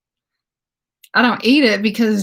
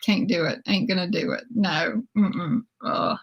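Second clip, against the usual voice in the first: disgusted whining; 4 semitones lower, 6 dB quieter than usual. Retold or imitated. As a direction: whine like a kid refusing food. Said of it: "and I would be like".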